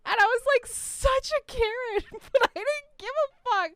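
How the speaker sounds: high and loud while laughing; giggling through the words. Real, not acted. Laughing high after Karen bit.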